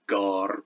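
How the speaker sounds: gar with G as a firm stop; Old English gar, hard G and long vowel. Shown as a demonstration. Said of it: "that's a so-called hard G".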